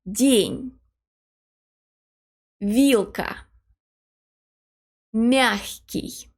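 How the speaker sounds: "День", "Вилка", "Мягкий" with palatal consonants; each word said slowly with its consonants softened; soft consonants. Shown as a demonstration. Teacher models the example words one by one. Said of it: "Here are some other words".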